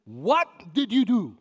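suspicious wife asking. Retold or imitated. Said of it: "She said it again".

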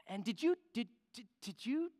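high, faltering start to a question; acted nervous stutter; halting stammer. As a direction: trip over the words as you dare to ask. Man stammers toward the big question.

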